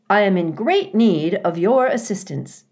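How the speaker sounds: friendly robot, projecting brightly; friendly booming voice. Acted. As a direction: call out politely for help. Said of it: "the robot's friendly voice boomed".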